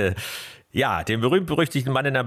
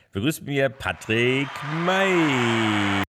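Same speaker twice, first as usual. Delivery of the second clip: ring announcer; 3 semitones higher, slower than usual. Acted. Introducing guest like ring announcer.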